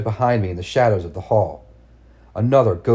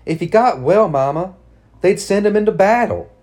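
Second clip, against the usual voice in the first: high, pleading daughter; desperate pleading; 9 semitones higher, 5 dB louder than usual. Acted. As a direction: beg her desperately. Girl argues desperately.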